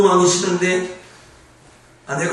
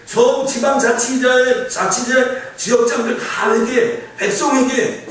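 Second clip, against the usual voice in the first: raised, higher voice of a king giving orders; rally everyone from ministers down, building in pitch; commanding king's decree; 5 semitones higher than usual. Retold or imitated. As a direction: issue urgent royal orders, one rank after another. Acting the king ordering repentance.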